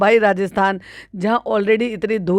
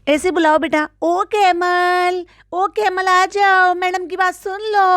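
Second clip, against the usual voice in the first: much higher, drawn-out sing-song calling; high mock mother voice; 9 semitones higher, slower than usual. Mimicking madam teaching her son to call the ducks, high and slow.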